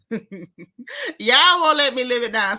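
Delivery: slow words broken by laughter; real laughter at the Robin voice; laughing. Real, not acted. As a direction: laugh through it. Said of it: "the Robin voice gets me every time".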